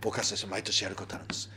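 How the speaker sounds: softly, as if sharing a secret; hushed confiding. Real, not acted. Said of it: "あんまり大きい声で言えないけど". (ひそひそ声で内緒話のように)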